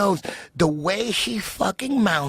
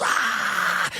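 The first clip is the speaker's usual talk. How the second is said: crowd scream; 2 semitones higher than usual. Retold or imitated. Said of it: "Everyone was".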